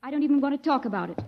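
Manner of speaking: indignant refusal. Acted. Angry refusal of his proposal.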